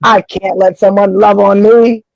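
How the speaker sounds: usual speaking voice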